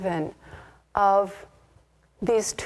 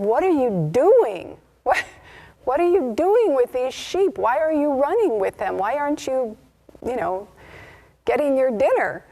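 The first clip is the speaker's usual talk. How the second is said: higher, louder, disbelieving demand; a lion confronting a lion among sheep, higher and louder; incredulous challenge; 5 semitones higher, 3 dB louder than usual. Acted.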